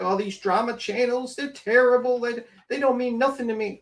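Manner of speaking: lightly put-on griping voice; mocking mimicry. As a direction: imitate someone griping dismissively. Mimics the person's hypocritical complaint.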